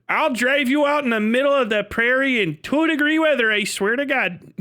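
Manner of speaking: comic indignant warning; mock threat. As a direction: threaten like an outraged local, hammed up. Plays a Canadian threatening over French.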